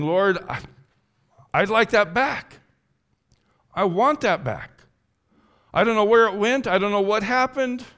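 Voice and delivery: loud, high cry of longing; urgent, pleading outburst; anguished plea. Acted. Voices David pleading with God.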